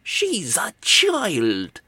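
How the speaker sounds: high, drawn-out acted protest; shouted. A narrator's reading. Crumley protesting the gift, high acted shout. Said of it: "shouted Crumley".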